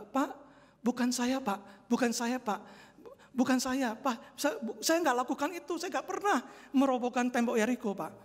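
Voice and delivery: put-on a child's high, pleading denial; frightened child. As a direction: plead your innocence like a scared little boy. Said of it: "Langsung anak itu ketakutan". (anak kecil ketakutan, membela diri)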